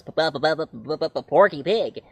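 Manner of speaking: stammering P before the name; mock stammer on the P; Porky Pig stutter.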